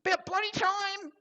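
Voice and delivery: very high, squeaky little creature complaining; high-pitched mogwai griping at the newcomer; grumpy gremlin voice. Acted. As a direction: snap at them like an impatient tiny gremlin. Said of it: "sitting there going".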